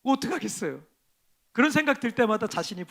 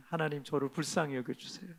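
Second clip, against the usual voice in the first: lower, soft plea to God; soft pleading prayer; quiet prayer; 5 semitones lower, 9 dB quieter than usual. Retold or imitated. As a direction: pray it humbly. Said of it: "하나님 앞에 이렇게 기도해요".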